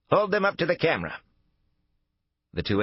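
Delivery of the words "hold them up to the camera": put-on elderly woman voice. A narrator's reading. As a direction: proclaim it like a wary old lady. Wary old woman at intercom.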